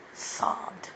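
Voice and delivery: choked whisper. Real, not acted. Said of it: "I was just sobbing".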